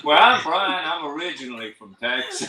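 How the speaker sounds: jokey attempt at Texan; unconvincing Texas accent, amused; mock Texas accent. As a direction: introduce yourself as a pretend Texan. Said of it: "Oh, that's not a Texas accent".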